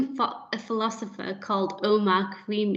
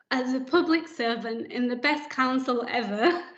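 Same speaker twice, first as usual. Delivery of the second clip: laughing while she speaks; a nervous laugh through the words; 3 semitones higher than usual. Real, not acted. Former care leaver thanking the board, laughing through tears. Proud tearful speech, laughing.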